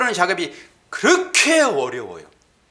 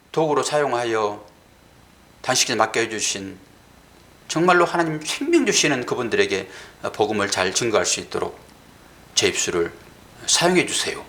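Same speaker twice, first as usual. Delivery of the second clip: quiet retold prayer; 8 semitones lower than usual. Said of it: "근데 마지막에".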